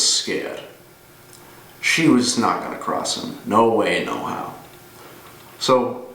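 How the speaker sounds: lightly voiced ex-cop telling a grim story; measured storytelling with deliberate pauses, understated menace; Mike Ehrmantraut. Former cop recounts a story to Walter, lightly voiced and deliberate. Mike's monologue to Walter after introduction.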